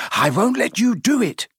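put-on high, strained boyish defiance; defiant. A narrator's reading. Neville blocks his friends at the portrait hole, defiant.

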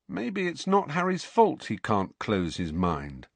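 hint at something sinister, slowly; darkly. Acted. Ron darkly hinting Snape may be at fault, slow and dark. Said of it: "said Ron darkly".

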